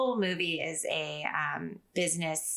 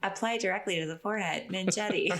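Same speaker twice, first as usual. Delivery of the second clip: TV ad announcer. Retold or imitated. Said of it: "like an infomercial".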